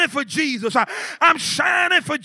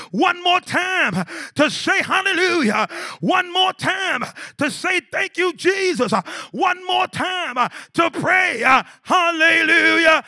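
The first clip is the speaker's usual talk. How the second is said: shouted, rhythmic preaching with rising calls; fiery gospel preacher building the church up; full-force preaching. Acted. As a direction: preach it out to the whole congregation.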